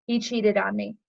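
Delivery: understated letdown; deflated, matter-of-fact downswing. Acted. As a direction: drop back down for the bad news. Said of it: "But life does this".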